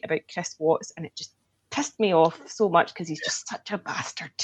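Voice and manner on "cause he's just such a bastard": muttered under the breath, a near whisper; hushed disgust. Real, not acted. Telling friends about the documentary killer in a hushed, disgusted whisper. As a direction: let the contempt slip out low. Angry aside about Chris Watts.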